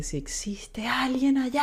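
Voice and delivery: slow, high breathy whisper; whispered cry to God. Retold or imitated. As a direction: breathe it up into the dark. Retells crying out to God. (susurro lento y agudo hacia Dios)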